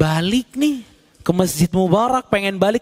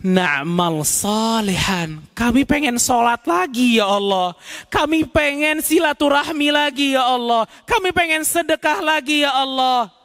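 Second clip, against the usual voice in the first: raised, imploring promises to God; pleading sinners; 5 semitones higher than usual. Acted. Souls in hell promising God to do good, imploring. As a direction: bargain desperately for another chance.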